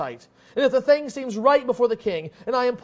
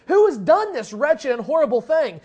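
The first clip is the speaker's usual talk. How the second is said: furious; 4 semitones higher, 4 dB louder than usual. Acted. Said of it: "the king gets furious".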